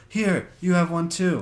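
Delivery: imitating a kid. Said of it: "then they go".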